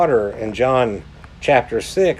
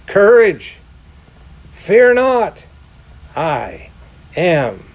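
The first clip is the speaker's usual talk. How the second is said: ringing proclamation; 2 semitones higher, 3 dB louder, slower than usual. Acted. Jesus calling across the stormy sea, ringing out. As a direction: call it out like a herald. Preacher proclaims words to congregation.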